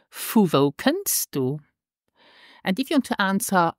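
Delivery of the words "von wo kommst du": slow model phrase. Shown as a demonstration. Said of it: "is in Luxembourgish".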